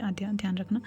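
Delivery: unvoiced whisper, close to the ear. Nurse whispering a warning in Aadhya's ear. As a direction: lean in and whisper it. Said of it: "कान के पास झुकती है".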